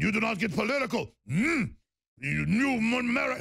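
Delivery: high, mocking quoted warning; mock imam quote. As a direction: parody the imam's threat. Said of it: "clips of imams saying".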